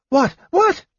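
very high yelled question; shout, straining to see; yelling. A narrator's reading. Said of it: "Tas yelled".

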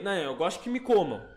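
put-on Rio carioca accent, loud; a touch of carioca accent. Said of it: "eu dei um sotaque carioca agora".

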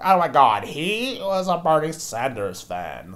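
high, slow mocking gasp; high, slow mock shock; mock outrage. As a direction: parody a scandalised internet user.

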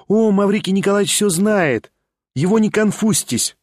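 lightly voiced young woman, wistful then eager; a hint of a lively young lady, lifted a little; young lady Liza. A narrator's reading. Liza, higher.

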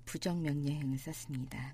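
ordinary delivery

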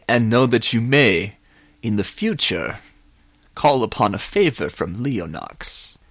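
slow, stately villain voice; suave, drawn-out farewell; grandiose villain. Acted. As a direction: pronounce it grandly, with long pauses.

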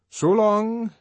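high and loud, airily condescending; patronizing. A narrator's reading. Bernard to the warden, patronizing goodbye. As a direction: toss it off with condescension. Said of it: "he said patronizingly".

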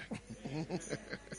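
quiet, amused little laugh; chuckle. Real, not acted. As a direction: chuckle softly to yourself. Chuckle after answered prayer remark.

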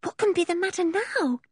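high, anxious whisper; hushed, worried little girl's voice. A narrator's reading. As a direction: whisper it fretfully. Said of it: "whispered Anne".

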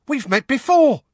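very high, loud little squeal; squeaky, over-excited wizard; excitable squeak. A narrator's reading. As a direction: squeak it out eagerly. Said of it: "squeaked the excitable Diggle".

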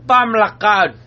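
hammed-up fake Jamaican accent; bad Jamaican accent. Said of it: "worst Jamaican accent".

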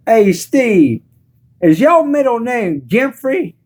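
high, teasing mock African American accent; imitated Black schoolmates' taunt. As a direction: taunt in an exaggerated African American dialect, stretching the name. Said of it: "they be saying shit like".

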